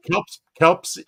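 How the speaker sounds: tripping over Kelps, stuck on the P-S cluster; tongue-tied. Real, not acted. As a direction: stumble on Kelps and try it twice. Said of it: "I can't say it".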